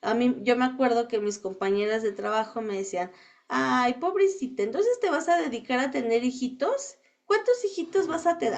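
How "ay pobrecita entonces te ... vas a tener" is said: sing-song pity, rising high on the last question; mocking pity. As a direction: imitate the coworkers mocking her. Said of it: "Así me decían en plan de burla". (compañeras burlándose de ella: tono compasivo y burlón)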